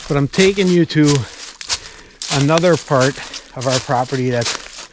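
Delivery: breathless after climbing a hill; out of breath. Real, not acted. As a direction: talk while catching your breath. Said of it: "if it sounds like I'm out of breath".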